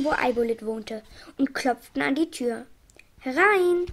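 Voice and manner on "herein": mild call. Acted. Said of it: "rief Ente Kika".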